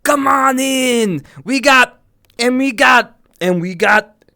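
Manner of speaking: a hint of a carnival barker; imitating movie barker. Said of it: "he's introducing everybody".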